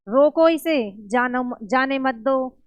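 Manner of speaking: slow, stressed "रोको इसे", break, then "जाने मत दो"; stop after रोको इसे. Shown as a demonstration. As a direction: hit "रोको इसे" and halt before going on. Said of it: "और पहले में".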